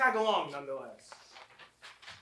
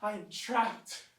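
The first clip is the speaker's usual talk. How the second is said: despair; 3 semitones higher, slower than usual. Acted. Despairing after failed escape.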